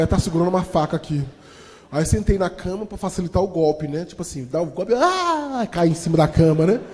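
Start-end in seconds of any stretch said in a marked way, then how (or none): 0.0-1.2 mock panic. Panicked thought about a knife. 4.9-5.7 mock death cry. Acting out the stab.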